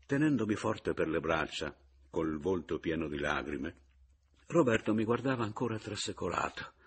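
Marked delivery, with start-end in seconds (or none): none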